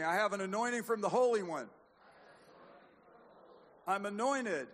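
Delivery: bold, high, loud faith declaration; rousing declaration. Shown as a demonstration. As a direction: proclaim it for the congregation to repeat. Leads congregation in declaration to repeat.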